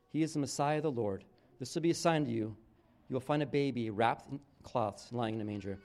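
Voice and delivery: steady, measured Bible reading; scripture reading. Acted. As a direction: read the passage to the congregation. Reads the Christmas scripture.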